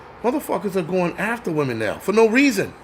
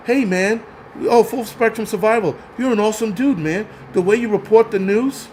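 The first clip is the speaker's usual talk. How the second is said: higher-pitched, lightly mimicked gushing fan; mock fan praise; 4 semitones higher than usual. Ranter mimicking fans praising a YouTuber, mock admiration.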